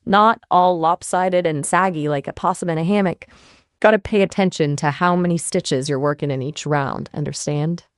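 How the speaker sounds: put-on a cowboy Texan accent; hammed-up Texan accent. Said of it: "Can you explain again in a Texan accent".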